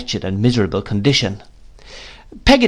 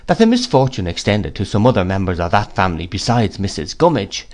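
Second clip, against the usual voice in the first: ordinary delivery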